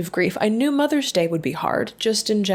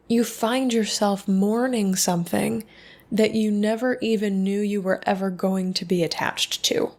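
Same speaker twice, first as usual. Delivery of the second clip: usual speaking voice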